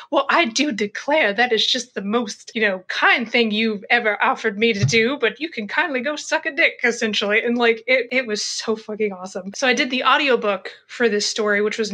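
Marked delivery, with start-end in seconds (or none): 0.1-6.8 mock-sweet Southern lady brushing off a man; Southern Belle. Hairdresser mockingly sweet-talking the detective, light Southern Belle voice. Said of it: "does this whole Southern Belle thing".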